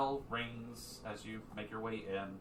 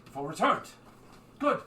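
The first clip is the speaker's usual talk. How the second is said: lightly voiced Sphinx, raised in greeting; welcoming Sphinx; 6 semitones higher, 8 dB louder, faster than usual. Sphinx greeting the returned party, welcoming. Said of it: "the Sphinx gets up".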